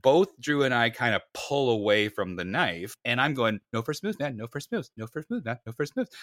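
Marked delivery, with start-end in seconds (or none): 3.7-6.1 high, rapid-fire panicky repeats; mock babbling panic, not shouted; losing his mind. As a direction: imitate someone stuck on a frantic loop. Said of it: "Like, I've lost my mind".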